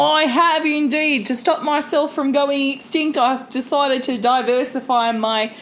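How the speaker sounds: light put-on Australian accent. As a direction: chat as a caribou in a mild Australian accent. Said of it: "with the Australian accent".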